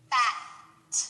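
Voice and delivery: bat with a breathy, unvoiced final t; bat, air only on the t; voiceless t. Shown as a demonstration. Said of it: "no vibration at the end".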